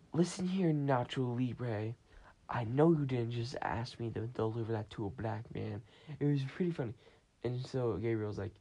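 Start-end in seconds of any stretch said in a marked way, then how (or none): 0.1-5.8 sassy scolding. Retold or imitated. Housekeeper scolds Gabriel over the prank, mock sassy. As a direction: tell him off with attitude.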